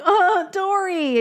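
high, drawn-out pitying wail; aching sympathy. Retold or imitated. Viewer pitying sad Dory, high drawn-out wail. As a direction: draw it out, overcome with pity.

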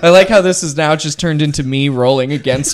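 loud amused complaint through laughter; laughing. Real, not acted. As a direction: talk while cracking up at yourself. Game master amused, laugh heard.

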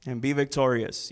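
loud, overdone sarcastic blessing; mock the king's hopes with false cheer; sarcasm. Shown as a demonstration. Micaiah answering King Ahab, loud sarcastic promise. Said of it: "This is how I do sarcasm".

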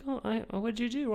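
high, fussing husband voice; mock concerned husband. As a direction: play the worried husband. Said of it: "And he's like".

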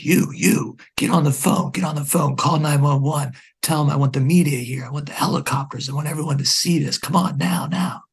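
high, loud, fast frantic demands; retold gunman yelling rapid orders; gunman's demands. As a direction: bark the orders in a rush like a panicked gunman.

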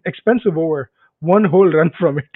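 understated imitation of a British commentator; subtle dry commentary. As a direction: lightly mimic subtle, deadpan commentary. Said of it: "very subtly talking and stuff like that".

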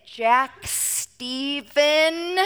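slow, drawn-out full name with a laugh; stretched full name, half laughing; mom calling full name. Shown as a demonstration. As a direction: call the kid's full name like trouble's coming. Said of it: "I usually say it just like that".

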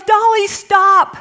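loud, slow call to the dog; husband shouting at the dog, loud and slow; retold yell. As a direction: yell the dog's name sharply to stop her. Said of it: "Jay yells".

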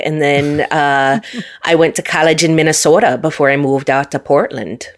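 put-on playful Upper Midwest accent; Minnesota accent. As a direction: slip into Minnesota talk, with a folksy tag question. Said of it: "you got the good accent".

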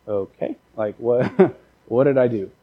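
low, hushed, puzzled reply; quietly weirded-out employee; awkward bewilderment. Acted. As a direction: murmur it uneasily with a nervous little laugh. Bewildered employee reacting to hug.

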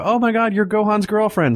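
high-pitched starstruck fan voice; excited mock fangirling; gushing fan, imitated. Imitates fans meeting his girlfriend.

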